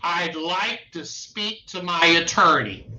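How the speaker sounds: the exact words said slowly with weight on attorney; slow, deliberate request. Shown as a demonstration. Lawyer showing clients what to tell the police, slow and deliberate. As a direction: spell out the magic words carefully.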